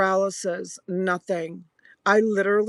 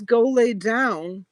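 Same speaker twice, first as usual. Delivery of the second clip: higher, drawn-out command; retold order, slowly stretched; imitated husband's order; 4 semitones higher, slower than usual. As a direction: re-enact a husband's impatient instruction.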